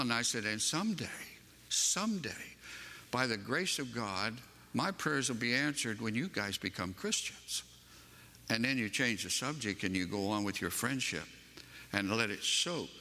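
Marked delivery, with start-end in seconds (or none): 0.4-7.6 gentle, smiling. Retold or imitated. Preacher telling dear friends he prays for them, gentle hope. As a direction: let a smile soften the retold promise. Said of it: "I just kind of smiled".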